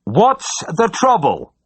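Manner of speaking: slow, high shout to a deaf man; full-blooded shout. A narrator's reading. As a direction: bellow each word so he can hear. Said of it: "I tried again with a full-blooded shout".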